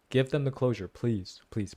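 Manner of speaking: ordinary delivery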